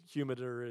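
"humider", a muddled form of "humid"; slip of the tongue. Real, not acted. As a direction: stumble into the made-up word "humider". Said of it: "Yes, I know, I said humider".

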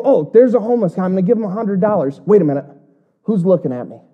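quick, lightly voiced show-off giver, then a suspicious glance; mock the giver who wants to be seen; showy giver.

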